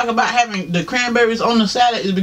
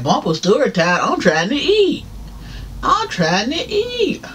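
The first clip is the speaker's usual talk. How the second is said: mock whiny protest; 6 semitones higher, slower than usual. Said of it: "I'm about to be like".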